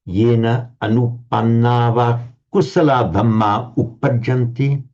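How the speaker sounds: slow, even chanting recitation; Pali recitation. Acted. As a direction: intone the Pali text slowly.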